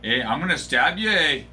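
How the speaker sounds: polite Canadian threat ending on eh; light Canadian accent with a lifted eh; joking Canadian accent to a friend; mock Canadian accent. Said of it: "Did I nail the accent".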